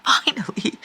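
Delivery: breathy laugh on finally; relieved giggle; laughing relief. Real, not acted.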